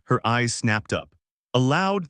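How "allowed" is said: sharp and bitter. Acted. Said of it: "The word was sharp, bitter".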